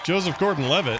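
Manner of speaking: surprised. Real, not acted. Surprised at the guest name.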